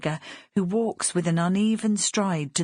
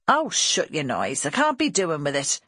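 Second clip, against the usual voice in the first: harsh woman; 2 semitones lower than usual. Acted. Workhouse woman snapping at a crying baby, mildly harsh. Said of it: "The voice, like the hands, is harsh".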